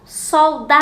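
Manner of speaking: "Soldado" called loud and high, DA held long; "Soldado" with a long, loud middle syllable; calling out the word. Shown as a demonstration. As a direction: stretch the DA in "Soldado" like a call. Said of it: "que eu mais demorei pra chamar".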